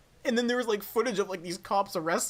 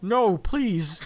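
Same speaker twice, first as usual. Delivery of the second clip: Patrick Stewart voice; 6 dB louder than usual. Retold or imitated. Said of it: "I love that impression".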